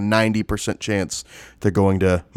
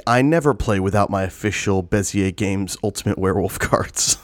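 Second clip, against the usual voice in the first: overeager salesman pitch; shill voice; 2 semitones lower than usual. Pretend. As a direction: sell it like a paid ad. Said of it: "Why are you saying it like that? You sound like such a shill".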